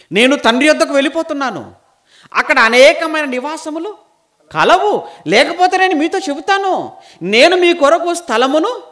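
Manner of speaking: high, loud scripture proclamation; full-force preaching. Acted. Preacher quoting Jesus' promise of many mansions, loud and ringing.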